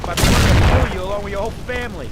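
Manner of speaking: threatening shout. Acted. Thug threatening the player.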